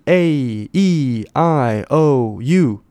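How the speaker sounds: drawn-out long vowel names, A E I O U. Shown as a demonstration. Teacher demonstrating long vowels to viewers, drawn out. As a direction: say each of A E I O U slowly and fully. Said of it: "长音就是".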